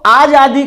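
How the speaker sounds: long AA opening आजादी, shown as the faulty form; आजादी with a full आ at the start; long first vowel. Shown as a demonstration. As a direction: say आजादी with a stretched first "aah". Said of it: "तो यह अशुद्ध है".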